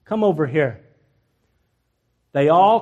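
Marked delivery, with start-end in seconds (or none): 0.0-0.8 understated, lower weary summons; tired of it. Retold or imitated. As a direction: call them over as if done mocking. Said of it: "He got tired of this".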